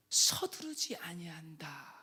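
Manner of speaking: slow, whispered, unhurried; slow calm whisper. Shown as a demonstration. Preacher showing how wisdom does not hurry, slow whisper. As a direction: let each syllable sit, whispering slowly. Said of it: "이 뜻 안에 침착하다".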